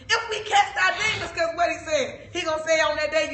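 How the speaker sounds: loud preaching. Real, not acted. Preacher climaxing the point.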